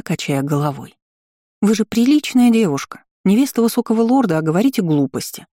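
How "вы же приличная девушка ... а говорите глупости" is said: stern. Acted. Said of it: "строго произнесла я".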